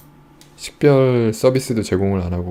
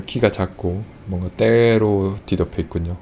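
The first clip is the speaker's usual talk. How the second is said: ordinary talk, nothing marked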